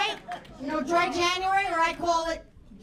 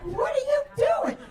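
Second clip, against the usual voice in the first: mock yell; 7 semitones higher than usual. Yelling at the carolers.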